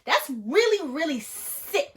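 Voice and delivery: slow, loud scolding, rising at the end; mock reproach. Scolding her scammer as a fellow Black person, mock reproach. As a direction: lay on the indignation, dragging it out.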